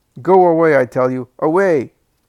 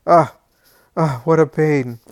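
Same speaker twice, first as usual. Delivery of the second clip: put-on querulous old man's rant; 3 semitones higher, 8 dB louder than usual. Old Alphaeus rants at his family, loud and querulous. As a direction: rail at everyone like a bitter, sick old man. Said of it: "a querulous voice is heard".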